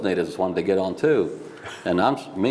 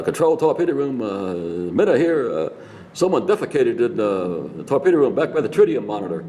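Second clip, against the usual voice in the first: radio report; 5 semitones higher than usual. Retold or imitated. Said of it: "he hears coming over the radio".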